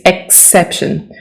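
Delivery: exception with a clear X, eks; exception, eks at the start; whispered exception, X clear; pronounce the X. Shown as a demonstration. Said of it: "Don't forget to pronounce the X".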